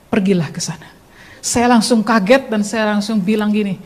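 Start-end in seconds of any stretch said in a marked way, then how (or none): 0.1-0.9 calm, kindly command; gentle, loving, authoritative. Retold or imitated. God sends his child to church, gentle authority. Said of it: "lembut dan penuh kasih, tapi berotoritas".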